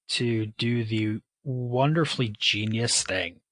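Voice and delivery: slow, drawn-out sarcasm; sarcastic. Real, not acted. Owning up to a bad decision about meds, sarcastic. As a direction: stretch out the mock praise, dripping with sarcasm. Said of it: "please recognize my sarcasm there".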